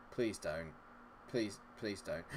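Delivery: soft, low begging under the breath; hushed pleading. Real, not acted. Player begs as the opponents threaten to score, hushed pleading. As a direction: plead quietly, as if not to jinx it.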